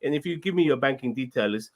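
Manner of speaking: put-on light Nigerian scam-caller accent. Asked for a Nigerian accent, a caller asks for banking details in a light Nigerian accent. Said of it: "can any of you do a Nigerian accent".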